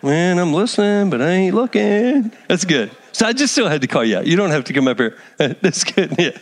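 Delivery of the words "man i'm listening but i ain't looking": Zach. Retold or imitated. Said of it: "here's Zach".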